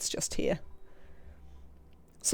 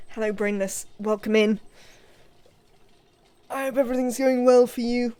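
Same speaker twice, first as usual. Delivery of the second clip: cheery greeting; 3 semitones higher, 7 dB louder than usual. Pretend. Greeting a newly arrived dupe.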